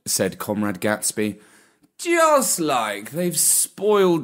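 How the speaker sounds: very slow, lazy aristocratic drawl; unhurried, lordly and bored; snooty bored cat. Acted. Gatsby explains.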